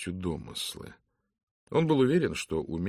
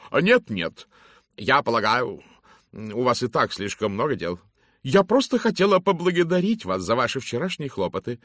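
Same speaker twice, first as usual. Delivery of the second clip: loud, hearty lady's greeting; booming matron; 6 semitones higher, 8 dB louder than usual. Acted. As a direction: hail him like a bossy matron. Mrs Masterton thanks Miss Brewis. (громкий зычный голос дамы)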